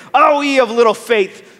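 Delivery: hammed-up annoyance at being woken; mock angry rebuke. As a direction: pretend to scold with sudden volume. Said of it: "In a very angry tone".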